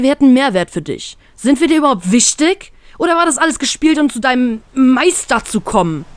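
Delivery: hurt, escalating accusation. Acted. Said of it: "immer lauter werdend".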